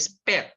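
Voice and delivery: "speak" with a short e, like "speck"; mispronounced speak. Shown as a demonstration. Teacher showing learners a careless slip, "speak" mispronounced as "spek". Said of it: "When you don't pay attention to pronunciation".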